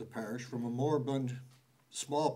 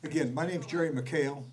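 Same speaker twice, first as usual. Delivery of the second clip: projecting louder for the back rows; speaking up; 2 semitones higher, 5 dB louder than usual. Real, not acted. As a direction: raise the voice so the rear can hear. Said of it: "Can you speak up".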